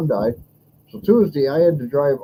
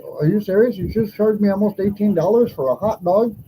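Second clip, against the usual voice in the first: mildly heated, higher-pitched complaint; retold anger; 6 semitones higher than usual. Retelling a rant at the hot dog cashier, mildly angry. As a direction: replay the outrage at the price, half-heartedly. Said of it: "That made me mad".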